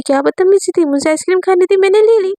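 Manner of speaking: shameless brat defending the snatch; brash snatching girl. Acted. Divya answers Amaira after grabbing the ice cream, brash.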